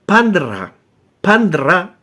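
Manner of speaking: "Pandra" said slowly, two syllables, no i; Egyptian word Pandra. Shown as a demonstration. Teaching viewers the Egyptian word, careful pronunciation. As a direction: pronounce "Pandra" as the Egyptian original. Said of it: "la versión en hebreo ... de una palabra egipcia".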